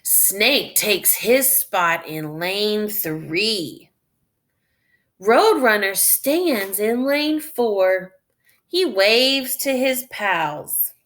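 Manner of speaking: slow, clear read-aloud; reading to children. Acted. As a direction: read slowly for beginning readers. Reading story text aloud.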